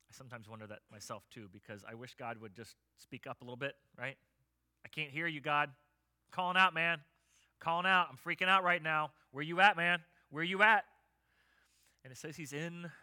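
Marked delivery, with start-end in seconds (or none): 4.8-10.9 loud, higher-pitched frantic plea; desperate shouting to God. Acted. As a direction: cry out like you're freaking out. Acted cry to a silent God.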